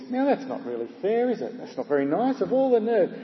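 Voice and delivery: put-on affronted grumble, pitch swooping up; a touch of wounded outrage; mildly indignant. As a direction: play the insulted driver, lightly huffy. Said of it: "Well, he thinks".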